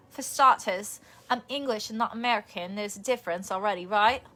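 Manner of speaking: rusty put-on British accent. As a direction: read it in an amateur British accent. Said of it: "since I did my British accent".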